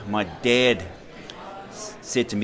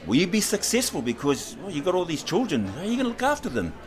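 mock incredulous panel; 8 semitones higher than usual. Panel questioning his seven children.

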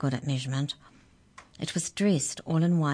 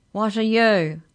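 booming question, high and loud; 6 semitones higher, 8 dB louder, slower than usual. A narrator's reading. Huge creature questions tiny Mallory, booming. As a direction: boom it down at someone tiny. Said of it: "he boomed".

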